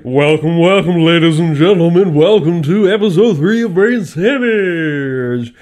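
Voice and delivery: host announcer voice. Pretend. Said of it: "Try your best to do an intro".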